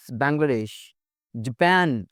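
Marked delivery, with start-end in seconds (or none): 1.4-2.1 American "जापान", second vowel a flat ae as in pan; American pronunciation. Shown as a demonstration. Teacher showing American English, "जापान" as juh-PAN. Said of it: "American English में".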